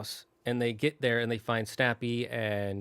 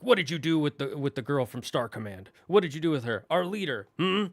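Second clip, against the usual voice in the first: interrogating Buzz toys; 2 semitones higher than usual. Retold or imitated. Buzz toys demanding their leader from Woody, interrogating. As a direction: press for answers like a toy interrogator. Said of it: "the Buzzes are interrogating Woody".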